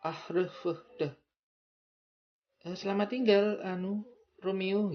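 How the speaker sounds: high, loud dramatic Italian farewell; theatrical Italian goodbye; Italian accent. Shown as a demonstration. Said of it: "ada sebuah penekanan ya".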